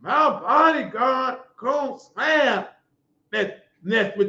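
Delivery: slow, mocking take on a rival's threat; drawn-out parody of a tough guy; mock boast. Preacher parodies a rival's bodyguard threat, slow and mocking. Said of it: "How you gonna say".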